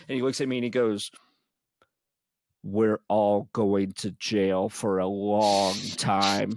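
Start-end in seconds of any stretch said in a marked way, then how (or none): 2.6-6.5 deadpan doom. Retold or imitated. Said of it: "looks at me with these huge eyes".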